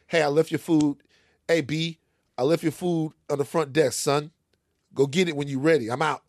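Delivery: lightly imitated New York delivery guy; brisk hint of a New York accent; New Yorker-ish. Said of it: "New Yorker-ish".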